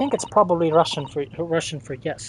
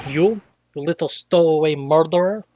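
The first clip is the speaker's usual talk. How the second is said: gruff sailor snarl; 7 dB louder than usual. Acted. Voicing the hostile sailor.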